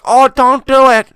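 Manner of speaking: high, loud, slow mock plea; mock horrified moviegoer; imitating scared lady. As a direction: stretch it out like a scared woman. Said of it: "She's like".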